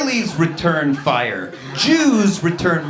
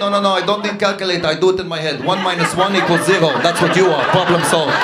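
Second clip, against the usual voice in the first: louder, deadpan finish; smug retort; 3 dB louder, faster than usual. Retold or imitated. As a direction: land the punchline flat and loud. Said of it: "tough guy".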